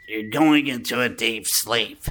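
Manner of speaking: mock hypnotist. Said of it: "go into, like, hypnosis".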